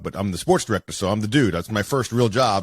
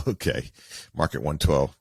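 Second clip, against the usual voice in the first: sarcastic; 5 semitones lower than usual. Retold or imitated. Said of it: "he looked at me like".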